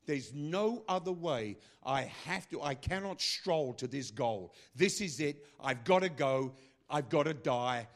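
slow, weighty, emphatic resolve; grim determination. Acted. Preacher voicing Jesus bound for Jerusalem, determined. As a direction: drive each phrase home forcefully. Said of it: "There was a determination".

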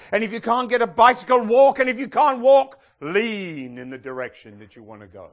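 starts level and rises to a loud shout on walk; quoting the evangelist, climbing from even to a loud call, no accent; building preacher cry. Retold or imitated. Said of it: "with his thick German accent, which I won't do".

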